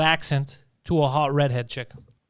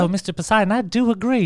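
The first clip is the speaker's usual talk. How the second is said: put-on Southern Belle accent; 4 semitones higher than usual. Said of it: "have you heard that".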